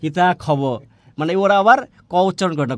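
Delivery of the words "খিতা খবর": খিতা খবর with kh for k; breath after each k in খিতা খবর; Sylheti pronunciation. Retold or imitated. Teacher repeating Sylhet form, খিতা খবর with aspirated খ. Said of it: "খ উচ্চারণ করে".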